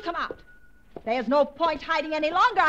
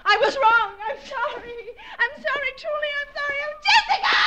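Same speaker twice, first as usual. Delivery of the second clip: sobbing apology; 6 semitones higher, 3 dB louder than usual. Acted.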